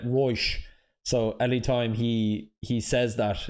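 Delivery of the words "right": "Right" as "Roish" in South Dublin accent; rich-kid Dublin accent, vowel rounded to "oy"; posh South Dublin accent. Shown as a demonstration. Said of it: "Dublin accent".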